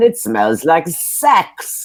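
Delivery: put-on slow, high-pitched Austrian accent. Retelling a TV moment about a truffle, doing Wolfgang Puck's Austrian accent. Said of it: "says in his Austrian accent".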